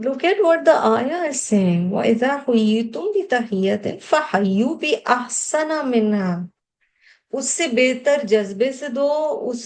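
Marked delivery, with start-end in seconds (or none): 1.9-6.5 melodic Arabic tilawat, fast and flowing; Quran recitation. Acted. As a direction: chant the verse like a reciter. Reciting the verse again.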